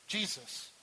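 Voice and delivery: ordinary delivery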